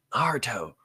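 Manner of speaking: yelling. Acted. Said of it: "he yelled".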